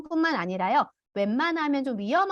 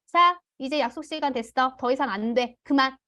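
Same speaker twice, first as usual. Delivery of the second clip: brisk, firm parent ending screen time; a touch of a stern parent; curt cutoff. Retold or imitated. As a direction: cut the child off short, no empathy. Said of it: "이렇게 먼저 해버려요".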